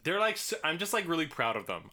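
talking around fake fangs; mouth propped open. Real, not acted. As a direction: lisp through the fangs. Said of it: "a big lisp because I can't close my mouth".

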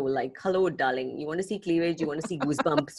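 low, soft sultry purr; breathy vintage purr. Pretend. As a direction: purr it like an old film siren. Flirty mock pitch to the men.

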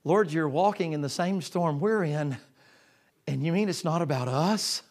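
loud, pleading cry over the storm; loud, desperate disciples; disciples calling out in a storm. Acted. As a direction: call out to the Lord from a storm-tossed boat.

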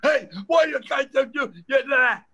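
loud, high shouting at a stranger; retold scream. Stranger on the street yelling at the comic, loud mock shout. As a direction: bark it across the street. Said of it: "starts screaming at me".

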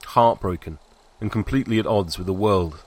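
plain reading voice

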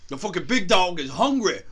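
hammed-up loud hungry-dog call; mock big-dog shout. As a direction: belt it out like a hype line. Riffing on barking dogs outside.

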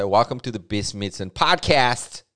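podcast said "pʰɑdkʰæst" with a crisp foreign intro tone; a mock-proper podcast opener; weird posh intro. Shown as a demonstration. Comic mocking a proper-sounding podcast opener, mock-proper. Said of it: "it'd be weird if I say".

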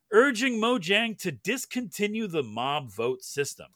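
steady newsreader delivery; news read. Acted. Reads the news segment.

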